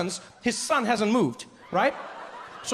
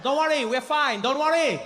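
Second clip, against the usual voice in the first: high, laughing reassurance that everything is fine; calm the crowd while panicking underneath; a fake-calm showman covering a disaster; nervous snake charmer; 4 semitones higher than usual.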